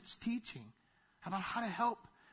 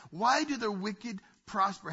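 Job's plea; 2 semitones higher, 4 dB louder, slower than usual. Retold or imitated. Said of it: "See, Job is saying".

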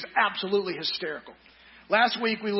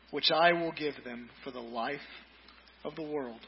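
mock grumbling crowd; 3 dB quieter than usual. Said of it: "and said".

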